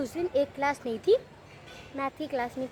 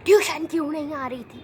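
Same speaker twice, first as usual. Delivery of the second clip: teacher demanding; 10 dB louder than usual. Retold or imitated. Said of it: "कहती".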